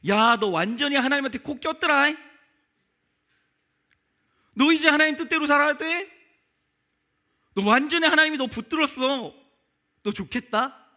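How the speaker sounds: father-in-law greeting the prisoner with joyful laughter; hearty cheer. Retold or imitated. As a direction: boom it out like a delighted old man.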